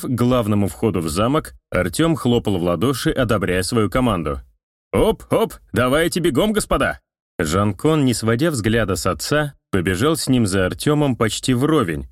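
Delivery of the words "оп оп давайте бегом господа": hustle the team along; brisk urging. A narrator's reading. Artyom clapping, urging team.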